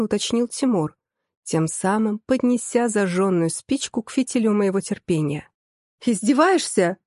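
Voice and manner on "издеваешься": mildly raised, incredulous challenge; a restrained mock yell; outraged yell. A narrator's reading. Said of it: "заорала я".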